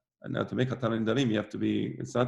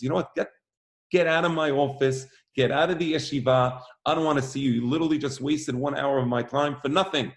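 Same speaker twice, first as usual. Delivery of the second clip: raised, exasperated dismissal; angry; 3 semitones higher, 3 dB louder than usual. Retold or imitated. The Rosh Yeshiva throws out the visitor, angry and raised. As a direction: throw him out of the office, fed up. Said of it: "The guy got really angry".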